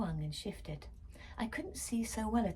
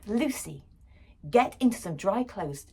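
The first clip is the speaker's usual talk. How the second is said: pleading; 3 semitones higher, 8 dB louder than usual. Acted. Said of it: "Dad pleaded".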